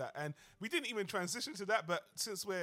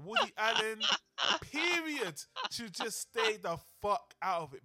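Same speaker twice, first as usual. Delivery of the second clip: angry outburst; 4 semitones higher, 9 dB louder than usual. Real, not acted. Ranting at Woody Allen.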